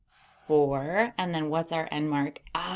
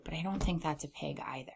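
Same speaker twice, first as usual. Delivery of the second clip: whispered aside; 5 dB quieter, much faster than usual. Real, not acted.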